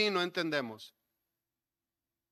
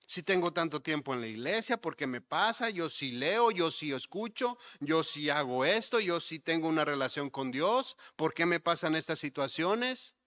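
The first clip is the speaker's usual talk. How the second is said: mock grievance, each point ending on a questioning rise; imitated complaining. Churchgoer protesting hard times despite church loyalty, mildly acted complaint. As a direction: act out a churchgoer's string of complaints. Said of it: "Pura queja, pura queja".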